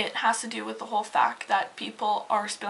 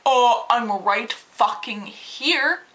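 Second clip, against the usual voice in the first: slow, louder, dismissive drawl; mock him as a lazy, smug jerk; mocking rude customer; 6 dB louder, much slower than usual. Cashier imitating the rude customer, mocking and slow.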